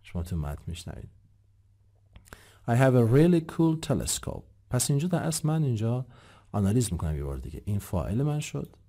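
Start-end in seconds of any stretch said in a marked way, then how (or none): 2.7-4.4 slow, louder, "really" punched; stress on really. Shown as a demonstration. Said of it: "Really یا really". (تأکید محکم روی really)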